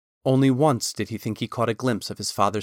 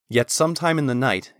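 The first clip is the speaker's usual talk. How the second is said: usual speaking voice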